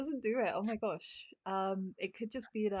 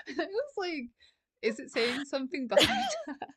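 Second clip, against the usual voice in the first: words broken by laughter; laughing while talking; 8 semitones higher, 9 dB louder than usual. Real, not acted. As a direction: talk through giggles. Laughing through retelling.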